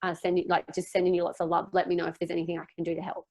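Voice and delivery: gentle support. Shown as a demonstration. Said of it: "other than".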